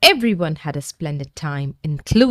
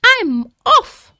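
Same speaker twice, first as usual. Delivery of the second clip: timid dragon voice; 3 dB louder than usual. A narrator's reading.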